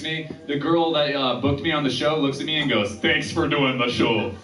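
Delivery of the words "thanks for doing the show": slow cartoonish Minnesota accent; goofy Minnesota accent. Show booker greets the comic offstage, in a goofy Minnesota accent. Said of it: "That was her voice".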